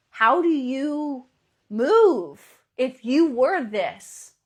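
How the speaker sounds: slow, loud, each word weighted; slow emphatic. Real, not acted. Coach challenging listeners to embody it, slow and weighty. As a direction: lean hard into the question. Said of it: "coach emphatic question".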